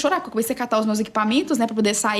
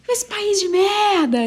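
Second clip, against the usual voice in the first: retold angry cursing; 9 semitones higher, 3 dB louder, much slower than usual. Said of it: "Aí eu falei em português".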